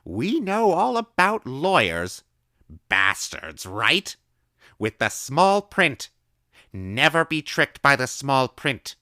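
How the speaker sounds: high, loud, slow gleeful lecture; excited old woman. A narrator's reading. Old woman gleefully warning the boy about small print. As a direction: relish warning the child.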